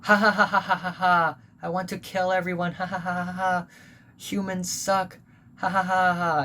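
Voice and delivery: high, cackling mock madwoman voice; mock insane laughter. Friend imitated spamming texts, high manic cackle. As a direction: play a friend gone crazy, laughing maniacally. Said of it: "Natalie would go insane".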